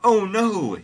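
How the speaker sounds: high, loud mock cry; Mary yelling. A narrator's reading. Host reading Mary as God appears, yelling. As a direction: yell it in a high-pitched voice. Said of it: "yelled Mary".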